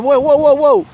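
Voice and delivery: loud whoa. Real, not acted. Calming the excited dog.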